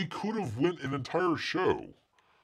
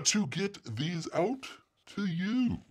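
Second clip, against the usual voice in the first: mock Australian accent; 7 semitones higher, 6 dB quieter, slower than usual. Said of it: "do this in the accent".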